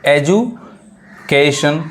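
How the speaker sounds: एजुकेशन stretched slowly with a rising end; teacher modelling एजुकेशन slowly; slow model word. Shown as a demonstration. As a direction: draw out एजुकेशन syllable by syllable. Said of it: "अब देखिए".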